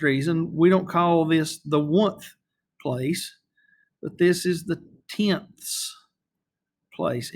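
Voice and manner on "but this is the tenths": tenths with the final TH drawn out and stressed, slowly. Shown as a demonstration. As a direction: lean on the TH at the end of tenths. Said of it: "you notice this emphasis on the T H".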